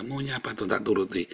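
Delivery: soft, resigned acting of a prayer; surrendered prayer. Shown as a demonstration. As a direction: hand it all over to God, softly. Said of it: "Pasrah, saudara".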